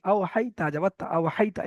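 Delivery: আও হাইতা read softly and quickly, no stretch; spelling out recitation. Shown as a demonstration. Teacher to students, demonstrating আও হাইতা softly. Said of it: "বানান করে দেখিয়ে দিচ্ছি".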